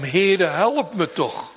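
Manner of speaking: slowed, insistent begging; slow plea. Acted. Mother pleading with Jesus for her child, understated. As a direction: plead for the daughter, pressing. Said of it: "Als die moeder zo roept".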